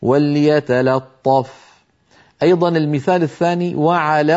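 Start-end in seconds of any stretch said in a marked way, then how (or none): 0.0-1.5 وليتلطف drawn out slowly, لام thin then طاء full; نطق وليتلطف ببطء مع ترقيق اللام وتفخيم الطاء; slow model reading. Shown as a demonstration. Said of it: "ينتقل إلى الطاء المفخمة".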